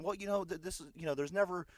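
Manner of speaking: a hint of a nosy neighbour explaining herself; mild mock Karen complaint; imitating the Karen. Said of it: "the woman starts saying".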